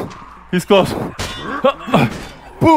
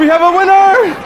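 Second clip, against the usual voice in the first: excited announcement; 6 semitones higher, 4 dB louder than usual. Real, not acted. Announcing the game winner.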